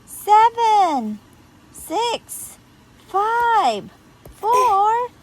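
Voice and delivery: high countdown, climbing toward one; building, stretched-out numbers; excited countdown. Acted. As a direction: count down with rising anticipation.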